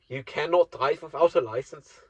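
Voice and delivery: hammed-up stern German accent. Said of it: "practicing to do German accent".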